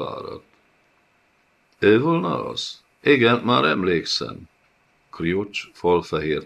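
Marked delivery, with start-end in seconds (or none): 1.8-4.5 higher, contemptuous voice for the bloated tyrant; sneering lord. Acted. The karasz sneering at his new prisoner, high and contemptuous. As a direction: look down on him, looking down your nose.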